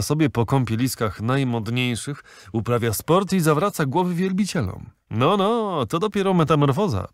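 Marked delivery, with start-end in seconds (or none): 2.5-7.1 high ironic amazement; mock astonishment at her change; sarcastic musing. A narrator's reading. Captain mocks the fisherwoman's transformation, high and ironic.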